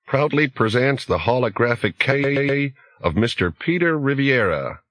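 put-on a disembodied host in a thick Sprawl accent. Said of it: "a disembodied voice with a pronounced Sprawl accent".

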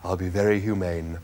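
low, kindly animal voice; reassuring. A narrator's reading. Animal comforting Arthur before its slaughter, reassuring. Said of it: "gave a friendly wink to Arthur".

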